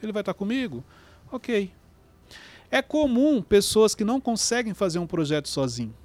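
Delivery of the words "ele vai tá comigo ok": relieved. Retold or imitated. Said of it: "aí ele relaxa".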